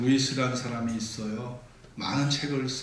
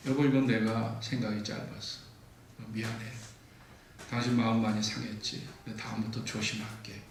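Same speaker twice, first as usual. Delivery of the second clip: sincere apology; 3 semitones lower, 4 dB quieter than usual. Shown as a demonstration. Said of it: "그 미안하다는 말이".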